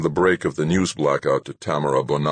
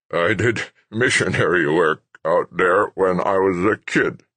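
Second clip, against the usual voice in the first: put-on higher, frail old voice; reminiscing old man; 3 semitones higher, 3 dB louder than usual. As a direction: drift back into old memories.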